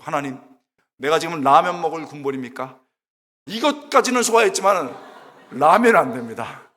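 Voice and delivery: retold protest that swells to an outburst; complaining to God. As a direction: plead your grievance, hammed-up. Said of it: "딱 막 삼십 분 동안 막 불평했습니다".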